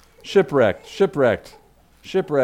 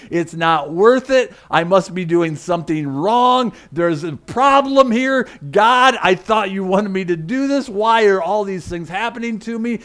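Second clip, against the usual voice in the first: exasperated complaint; 3 semitones higher, 3 dB louder than usual. Acted. Preacher imagines Paul questioning God, exasperated. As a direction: voice a man ready to give up. Voicing Paul wanting to quit.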